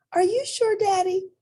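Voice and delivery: put-on a small child complaining about her tooth; little rabbit voice. Child rabbit asks father.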